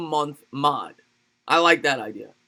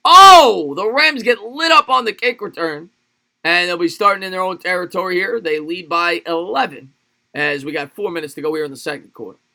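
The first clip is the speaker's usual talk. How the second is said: rising, louder sportscaster call that peaks at the spin; live play-by-play; 2 semitones higher, 8 dB louder than usual. Acted. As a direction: streamer calling his game like a TV broadcaster, excited play-by-play.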